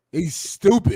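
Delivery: slow, laughing through the words; amused, drawn-out repeat. Real, not acted. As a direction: laugh it out as you repeat the insult. Laughing at a dismissive jab.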